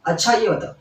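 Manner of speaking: अच्छा ये बताओ with a falling finish; questioning lead-in. Shown as a demonstration. Teacher repeating how a questioner opens, inquiring. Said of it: "जैसे कोई प्रश्न करता है".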